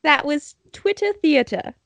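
hammy British title announcement; attempted British accent. Shown as a demonstration. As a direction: close the show in a put-on British accent.

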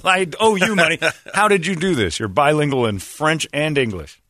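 high, amazed and caught out; surprised. Retold or imitated. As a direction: gasp out the realization. Shocked at being caught.

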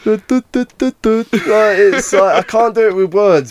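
a silly high-pitched Brummie imitation, laughing into it; an over-the-top Birmingham accent sent up for a friend. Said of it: "Can you do a Birmingham impression?".

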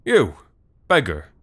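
loud barked call across the court; sharp official's shout. A narrator's reading. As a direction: shout down the beggar with authority. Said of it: "he shouted".

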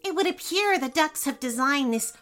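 high, pompous courtier voice; pompous advisor. Acted. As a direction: explain it like a fussy courtier. Advisor explains to king.

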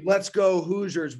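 high, slow rallying cry; excited team cheer. Real, not acted. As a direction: chant it like a fan in the stands.

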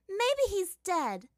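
slow, high mocking cackle; cackling. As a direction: cackle it out wickedly. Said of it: "Azula cackled".

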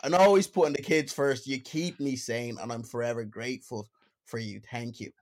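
put-on hammy Dublin accent reading. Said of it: "let me read them out in Dublin accent".

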